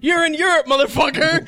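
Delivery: loud, mock tough European greeting; gruff local voice. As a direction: bark it like a smug local. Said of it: "You're like".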